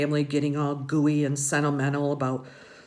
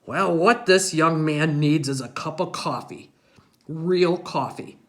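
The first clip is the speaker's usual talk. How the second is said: lightly voiced grandpa; 5 dB louder than usual. A narrator's reading. Grandpa deciding the boy needs coffee, lightly gruff. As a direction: announce it like a solemn grandpa. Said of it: "he goes".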